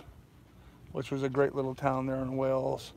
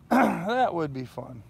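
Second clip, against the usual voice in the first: slow drawn-out repeat; 3 semitones higher, 4 dB louder, slower than usual. Real, not acted.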